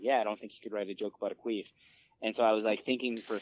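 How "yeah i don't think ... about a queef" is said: fast, breezy friend quote; quick retold quote. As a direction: rattle off the friend's line. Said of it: "One of my friends was like".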